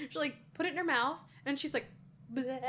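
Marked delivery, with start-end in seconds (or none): 2.3-2.6 a short spat-out bleh; mock spitting bleh. Mocking the actress spitting out candy, hammed-up bleh. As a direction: spit the bleh out like bad food. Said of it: "spits this thing out kind of dramatically".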